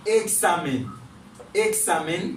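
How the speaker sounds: eksamen with a clear KS for the X; crisp KS inside eksamen. Shown as a demonstration. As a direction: sound out the KS in eksamen. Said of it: "li pwononse kòm".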